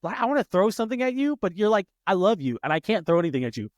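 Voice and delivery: high, incredulous what-did-you-say; mock outraged dad; indignant disbelief. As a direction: act stunned by the backtalk. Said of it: "And I'm like".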